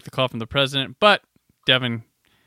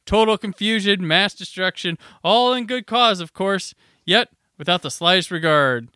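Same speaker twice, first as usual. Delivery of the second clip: mock heated rant; 5 semitones higher than usual. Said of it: "Devin's all, uh, heated up".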